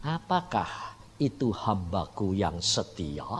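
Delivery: voice of God. Retold or imitated. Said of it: "Langsung dia ngomong apa?".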